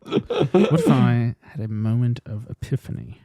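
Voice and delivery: slow, halting sad-boy impression; Hugh Grant. Mocking Hugh Grant's big realization, slow put-on sad-boy voice. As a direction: draw it out as a hesitant, mopey actor. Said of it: "goes into sad boy".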